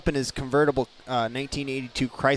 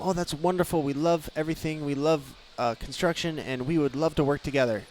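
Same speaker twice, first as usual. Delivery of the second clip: mock PR answer. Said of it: "we're supposed to deflect that question and say".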